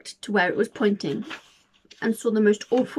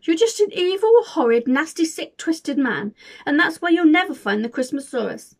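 crying shout; 4 dB louder than usual. Acted. William defying the hunter, tearful shout. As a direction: shout through tears at the villain. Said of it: "He was crying and shouting".

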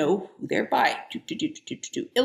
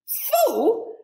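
resentful. Acted. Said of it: "said Carrie resentfully".

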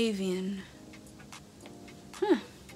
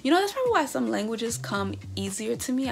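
excited boast; 3 semitones higher, 5 dB louder than usual. Real, not acted. Proudly claiming Italian heritage.

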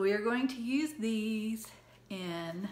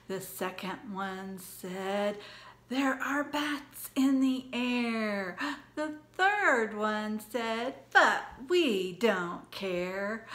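storytime recitation; 4 dB louder, slower than usual. Acted. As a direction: lively rhyme read to kids. Teacher reciting the pumpkin rhyme.

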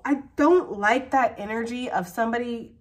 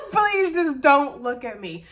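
slower, louder pleading repeat; drawn-out plea; 3 semitones higher, 5 dB louder, slower than usual. Retold or imitated. Reader replays the flustered lover's plea, slower and louder. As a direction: beg them, stretching each word. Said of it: "that person's like".

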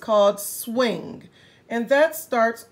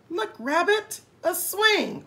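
excited discovery; 6 semitones higher than usual. Acted. Hippo finds swing.

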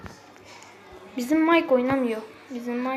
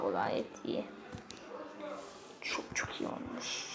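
impressed whisper; 14 dB quieter than usual. Real, not acted. Impressed by 30k trophies.

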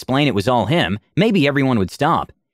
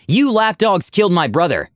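high, raised grieving accusation; mock shout; 7 semitones higher than usual. Refugee blaming the party for his brother, raised shout. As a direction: shout it at them in grief. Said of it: "one shouted before".

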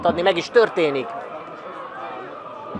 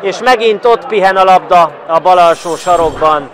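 much higher, louder goal shout; goal call; 5 semitones higher, 9 dB louder than usual. Real, not acted. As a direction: roar the goal, then settle. Goal scored live. (ordító gólkiáltás)

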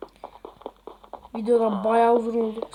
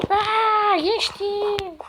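surprised; 8 semitones higher, much slower than usual. Real, not acted. Surprised getting through block.

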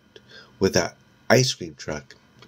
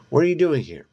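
polite cop; 8 semitones higher, 3 dB louder, faster than usual. A narrator's reading. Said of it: "the older cop asks politely".

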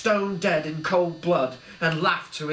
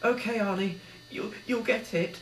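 solemnly; 7 semitones higher than usual. A narrator's reading. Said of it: "said Billy solemnly".

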